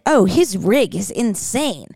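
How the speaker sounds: lightly imitated Australian accent, drawn out. Host quoting Love Island Australia slang, imitated Australian accent. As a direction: mimic the Australians with a swooping Australian tune. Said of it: "they kept saying".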